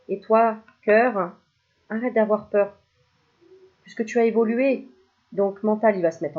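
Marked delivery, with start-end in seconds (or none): 0.1-4.9 coaxing the heart. Pretend. Cartomancer tells the viewer's heart, coaxing call. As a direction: coax the heart out of fear.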